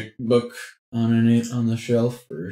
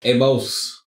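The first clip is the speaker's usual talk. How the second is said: slightly raised, louder in-character call; 4 semitones higher, 7 dB louder, slower than usual. Acted. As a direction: call to your boss, drawing out the question. Player calls out in character.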